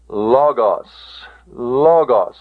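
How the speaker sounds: LOGOS said LAW-goss, open first vowel; short-omicron pronunciation. Shown as a demonstration. Teacher models the Greek word for students, LOGOS pronounced LAW-goss. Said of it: "the pronunciation of the omicron is".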